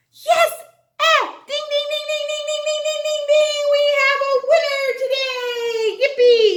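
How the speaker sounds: high, loud mock game show host dinging; game show celebration. Teacher announces a winner like a game show host, ecstatic. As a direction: ring the winner's bell like a quiz host.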